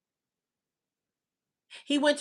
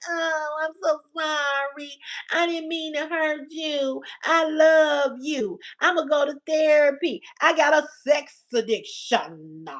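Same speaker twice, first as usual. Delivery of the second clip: slow mock-pleading apology; lightly whiny, slowed sorry-baby plea; mock whining cheater. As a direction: ham up a cheater begging forgiveness. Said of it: "doing all that whining and crying".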